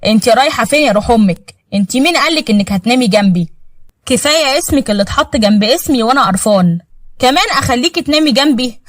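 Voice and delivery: understated cold disdain; a touch of icy scorn; cold contempt. Acted. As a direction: put her down coolly. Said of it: "بيقول ببرود".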